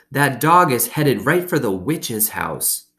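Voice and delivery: lightly voiced boy, high and slow; a hint of a kid spooking her; boy's warning. A narrator's reading. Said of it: "Dunlap hollered".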